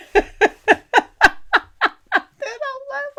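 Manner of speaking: words breaking into high laughter; real, amused laugh through the words; laughing while telling. Real, not acted. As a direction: crack up at your own story. Laughs telling how she walked out.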